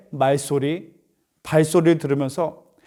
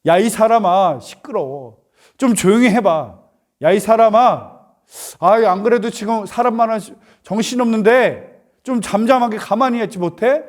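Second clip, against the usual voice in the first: louder, irritated mock telling-off; acted scolding; 4 semitones higher, 4 dB louder than usual. Crowd rebuking the noisy blind man, acted scolding. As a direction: play an annoyed bystander hushing someone. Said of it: "다그칩니다".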